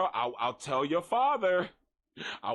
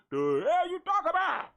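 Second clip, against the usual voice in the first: tiny woman voice; 11 semitones higher than usual. Retold or imitated. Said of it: "she was a grown-ass woman".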